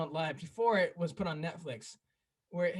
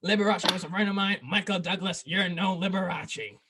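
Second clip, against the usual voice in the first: loud, squawky Gilbert Gottfried voice; a loud take on Gottfried's roast voice; Gilbert Gottfried impression; 4 dB louder than usual. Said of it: "Gilbert Gottfried was".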